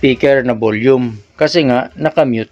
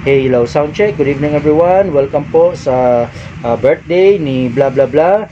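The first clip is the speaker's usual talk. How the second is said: normal MC voice. Shown as a demonstration. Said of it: "normal voice lang ng M C".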